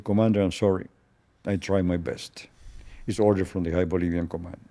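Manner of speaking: soft, low-key retold apology; softly voiced apology; subdued apology. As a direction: say it quietly, as regretful bad news. Retold apology to the doomed commander.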